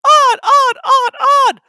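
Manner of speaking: very high, loud gleeful taunt; laughing trucks. A narrator's reading. Trucks laughing as they push James. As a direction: cackle it out mockingly. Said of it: "laughed the trucks".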